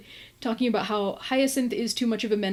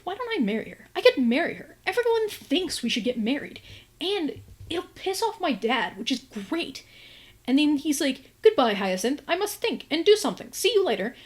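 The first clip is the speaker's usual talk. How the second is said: pitched-up, eager retold scheming; sudden giddy idea; 5 semitones higher than usual. Gareth deciding to marry Hyacinth, high and eager. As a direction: blurt out the plan mid-kiss.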